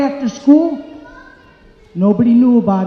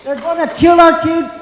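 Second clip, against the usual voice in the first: shout; 5 semitones higher than usual. Real, not acted. Protester shouting at school board.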